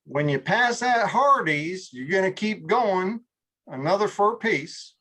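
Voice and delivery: slow, unhurried Southern drawl; Southern local giving directions. Retold or imitated. Local in Southern Virginia giving directions, slow drawl. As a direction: take your time like a Virginia local. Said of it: "Southern Virginia and getting directions".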